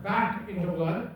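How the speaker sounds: "back into blood" set out with deliberate emphasis; stress on back into blood. Shown as a demonstration. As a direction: lean on each word of "back into blood". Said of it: "I wanna really emphasize the word".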